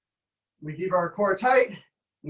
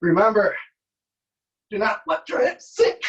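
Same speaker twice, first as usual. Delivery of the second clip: coaching shout; 3 semitones higher, 4 dB louder than usual. Real, not acted. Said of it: "coaching a plank".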